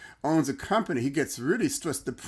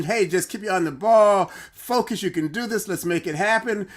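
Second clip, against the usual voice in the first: higher-pitched mock cheering shout; retold team yelling; 4 semitones higher, 3 dB louder than usual. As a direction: urge him on like a shouting team, half-strength. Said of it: "the home team is screaming at him".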